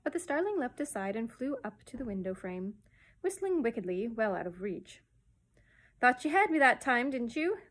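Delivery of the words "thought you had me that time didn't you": high, loud taunt; jeering. A narrator's reading. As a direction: crow over a foiled attacker. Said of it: "he jeered".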